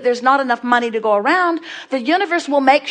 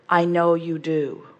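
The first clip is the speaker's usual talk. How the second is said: nice but snarky; 4 semitones lower than usual. Retold or imitated. Learned man cutting Esther off, mildly snarky. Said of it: "his nice and yet sort of snarky way".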